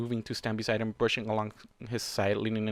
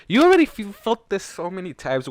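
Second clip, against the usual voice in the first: exasperated cry; 8 semitones higher, 8 dB louder than usual. Real, not acted.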